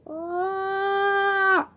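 loud startled cry; sharp loud exclamation; sudden yelp. Real, not acted. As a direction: yelp out as the glue bites. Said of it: "I'm aggressive".

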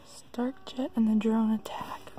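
slow hushed reading of a title; whispering. Real, not acted. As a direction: read it out in a breathy whisper. Whispering while reading box title.

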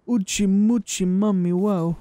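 playful gibberish chant; lightly put-on babbling voice; silly nonsense voice.

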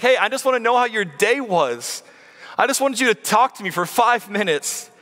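lightly voiced parent asking for attention; pleading parent. Preacher imitating parents talking to their child, gently pleading. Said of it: "Do your parents ever say something like this".

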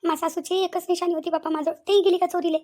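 acted wailing over a loss; tearful lament. Mother learning her gold was stolen, tearful lament. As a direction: lament it as if crying. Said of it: "रडू नका, रडू नका".

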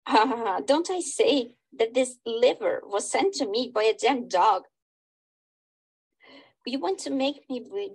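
theatrical play reading, character lines acted lightly; dramatic reading. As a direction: read the play aloud like a stage scene.

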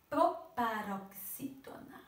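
"proparoxítona" broken slowly into its syllables. Shown as a demonstration. Teacher introducing a long term to pupils, syllable by syllable. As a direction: spell out "proparoxítona" in separate beats. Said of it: "Essa palavra é bem grande".

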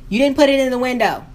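retelling the clerk with a touch of attitude; lightly voiced snippy clerk; a hint of a nasty clerk. The tow clerk scolding her, a touch snippy. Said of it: "really nasty voice and an attitude".

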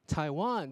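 TAIWAN stressed on WAN, falling; statement "Taiwan", weight on the last syllable; second-syllable stress. Shown as a demonstration. Teacher showing where stress sits, WAN stressed in "Taiwan". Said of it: "是第二个重音".

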